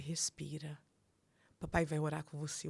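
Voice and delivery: soft, steady reassurance, imitated; quietly steady a frightened son; centred, composed father. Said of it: "o Flávio é muito centrado". (imitando um pai calmo, voz baixa)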